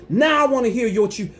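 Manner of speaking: heated call to silent pastors. Real, not acted. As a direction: demand they speak up. Challenging pastors to speak.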